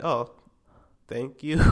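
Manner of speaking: polite thanks with no excitement; expressionless. Retold or imitated. Receiving a disappointing gift, expressionless. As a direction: thank them with an unmoved voice. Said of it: "I don't think I even had any, like, any, like, expression".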